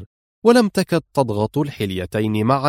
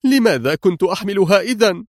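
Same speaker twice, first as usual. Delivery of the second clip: high, sharp question; sharp retort; 7 semitones higher than usual. A narrator's reading. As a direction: demand an answer sharply. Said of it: "قالت في حدة". (سؤال حاد بصوت مرتفع)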